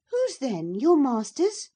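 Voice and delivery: put-on high, loud young girl's voice; pressing the servant lad like a pert young miss; girl's sharp question. A narrator's reading. Cathy quizzes the sullen lad, high and pert. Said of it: "she asked".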